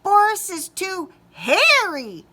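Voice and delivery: high loud squeaky yell; squeaky mouse yell. Acted. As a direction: shout it as a scared mouse. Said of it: "yelled another".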